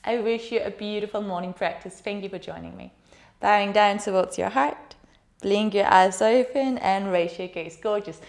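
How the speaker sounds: calm, steady meditation voice; guided meditation. Acted. Yoga teacher guiding students through the body, soothing meditation. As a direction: guide the class gently inward.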